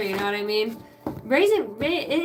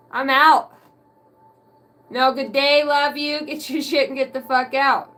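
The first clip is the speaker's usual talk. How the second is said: brusque grandma; 3 semitones higher, 6 dB louder than usual. Acted. Acts out Grandma's school drop-off.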